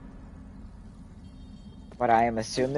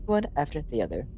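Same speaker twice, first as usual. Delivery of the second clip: robot voice; 3 semitones higher than usual. Acted. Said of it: "I'm still doing the robot voice for the one dude".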